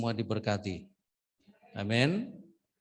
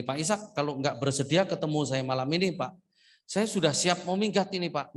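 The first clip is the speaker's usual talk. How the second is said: higher, fast retold plea from the pastor; mock pleading pastor; 3 semitones higher than usual. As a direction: hurry through his desperate plea. Retold pastor threatening to leave. (meniru pendeta yang memohon dengan tergesa)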